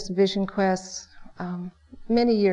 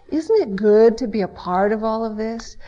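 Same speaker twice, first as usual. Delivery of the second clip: wry acceptance; 4 dB louder than usual. Retold or imitated. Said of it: "how many of us can really say".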